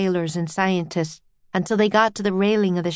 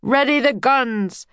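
higher, firm order; commanding call; 5 semitones higher than usual. A narrator's reading. Captain readying the crew to attack, commanding call. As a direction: give the order with raised voice.

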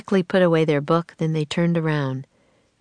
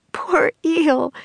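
breathless whisper, higher; out of breath; 11 semitones higher, 3 dB louder than usual. Acted. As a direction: gasp it out after tumbling in the water. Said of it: "trying to catch her breath".

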